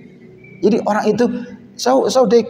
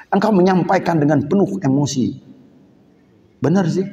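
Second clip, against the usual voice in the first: ordinary delivery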